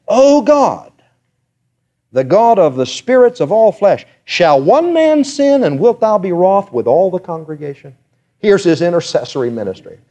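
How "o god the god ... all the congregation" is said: high, earnest pleading to God; pleading prayer. Retold or imitated. Moses pleading with God for his people, high and earnest.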